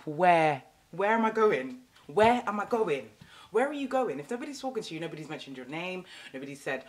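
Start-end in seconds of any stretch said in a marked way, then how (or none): 0.0-4.2 scolding mum. Retold or imitated. Mum scolding voiced in story.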